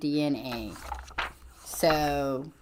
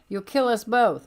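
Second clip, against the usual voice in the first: higher, louder urgent warning; alarmed warning; 7 semitones higher, 6 dB louder than usual. Retold or imitated. Lady Deathstrike warning Sabretooth, loud alarmed warning. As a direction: snap it out to stop him. Read-out comic quarrel, character warns.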